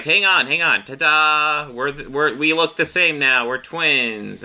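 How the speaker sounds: high, loud, giddy showing-off; gleeful Joker. Retold or imitated. Joker showing Lex their matching suits, high gleeful voice. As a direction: burst in like a delighted lunatic. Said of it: "and then Joker's like".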